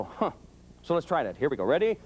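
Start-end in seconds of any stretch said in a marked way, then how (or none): 0.0-0.3 grunt. Shown as a demonstration. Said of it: "You got to go".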